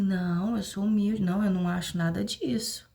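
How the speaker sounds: high, sing-song voice of someone full of false humility; sarcastic high-pitched impersonation of a self-righteous churchgoer; mock humble believer. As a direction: parody the proud person who claims to be humble. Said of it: "Aí vocês dizem assim".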